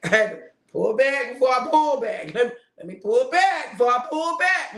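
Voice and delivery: laughing while correcting myself; chuckling self-correction. Real, not acted. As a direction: say it through a laugh.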